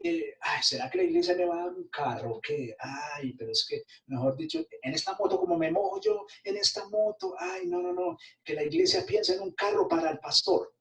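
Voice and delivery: hammed-up complaining preacher; mock greedy pastor. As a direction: mimic a pastor angling for a car. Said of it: "No es que yo esté pensando en".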